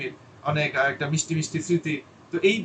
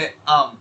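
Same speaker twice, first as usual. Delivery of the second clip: filler um; 6 dB louder than usual. Shown as a demonstration. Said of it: "Do not say".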